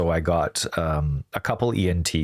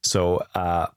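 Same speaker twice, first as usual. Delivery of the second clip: stuffed-up nose after surgery; blocked nose. Real, not acted. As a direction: talk through a blocked nose. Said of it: "I can't breathe through my nose right now".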